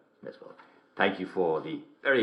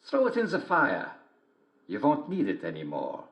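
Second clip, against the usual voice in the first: lightly voiced wolf; 5 semitones higher than usual. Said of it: "said the wolf".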